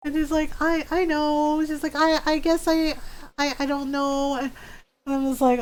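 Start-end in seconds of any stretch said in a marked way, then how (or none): 0.6-4.4 hesitant. Retold or imitated. Retold friend hesitates when urged.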